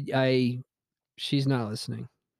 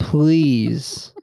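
loud, drawn-out plea with rising end; mock begging; 7 dB louder than usual. Told to add manners to a burger order, mock begging. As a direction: plead it loudly and overdo it. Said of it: "So now I'm begging you".

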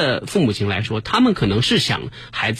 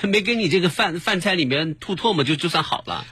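mock fake-polite mother; 7 semitones higher than usual. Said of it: "表面话谁不会讲".

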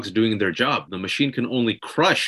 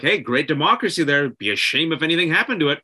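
smiling threat; 3 semitones higher than usual. Retold or imitated. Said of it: "almost a situation where".

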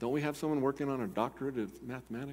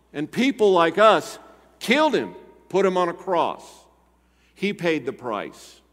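loud, high, impassioned preaching; rousing altar-call preaching; fiery preaching; 8 semitones higher, 10 dB louder than usual. Acted. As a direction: preach it out with full force to the room. Preaching at full force.

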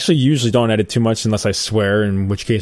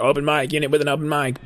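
dispatcher voice; 5 semitones higher, 3 dB quieter than usual. Retold or imitated. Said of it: "It's more like".

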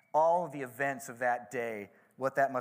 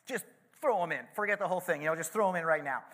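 a louder, impatient mock order; mad king; 4 semitones higher, 5 dB louder, faster than usual. King ordering the men thrown in, mock angry. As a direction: snap it out, fed up. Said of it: "the king gets so mad after this".

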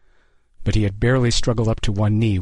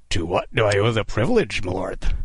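rasped irony. A narrator's reading. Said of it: "Kidd rasped, masking his terror with ironic courtesy".

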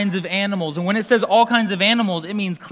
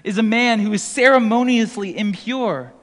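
a bit higher, louder, incredulous; mock alarmed objection; imitating a puzzled Jew; 4 semitones higher, 4 dB louder than usual. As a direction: play a scandalized Jewish listener. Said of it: "A Jew would have read this and thought".

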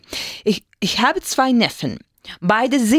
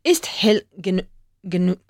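whisper; 3 semitones lower, faster than usual. Real, not acted. Student unsure mid-sentence.

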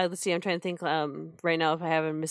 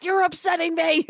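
much higher whiny prince; 11 semitones higher, 3 dB louder than usual. Retold or imitated. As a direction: whine it high at them. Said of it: "going like".

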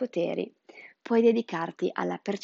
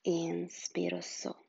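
soft mantra whisper; 6 dB quieter than usual. Acted. Mantra with breathing.

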